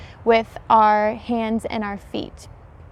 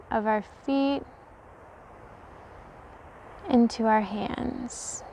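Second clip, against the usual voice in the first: slow visualization with long pauses, fading softer; guided meditation; 7 dB quieter than usual. Real, not acted. Yoga teacher leading viewers through an energy visualization, slow meditative voice. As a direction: guide them slowly, settling into a hushed tone.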